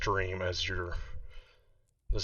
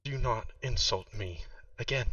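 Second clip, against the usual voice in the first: a lightly raised, soft woman's voice; soft female voice; 4 semitones higher than usual. Acted. The origami crane speaks to the player in a soft female voice. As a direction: speak gently but firmly as the paper crane. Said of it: "This is a soft female voice".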